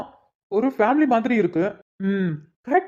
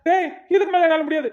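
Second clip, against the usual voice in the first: high, near-crying plea to stop; tearful plea; 6 semitones higher than usual. Acted. Beaten man pleads with the woman to stop, close to tears.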